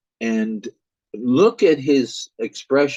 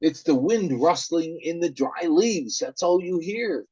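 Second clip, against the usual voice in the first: calming father; 7 semitones higher than usual. Acted. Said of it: "And then the father says".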